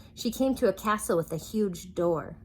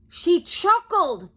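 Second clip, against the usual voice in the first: much higher, loud, slow wail; anguished cry; 12 semitones higher, 11 dB louder, much slower than usual. Acted. King wailing about Sunshine's chuckle. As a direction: howl it in despair. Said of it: "cried the king".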